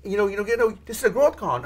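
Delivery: mock-order him back inside; imitating his own pushy friend; retold scolding. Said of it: "I'm like".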